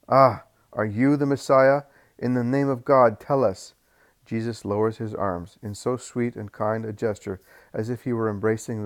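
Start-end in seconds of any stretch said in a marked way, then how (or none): 0.1-3.7 tag. Acted. Crowd challenges Jesus.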